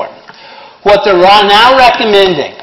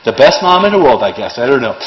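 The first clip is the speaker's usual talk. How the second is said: put-on a self-righteous mother boasting about her five kids; self-righteous mom; 3 semitones lower than usual. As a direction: brag like the best mom in the world. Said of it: "real self-righteous".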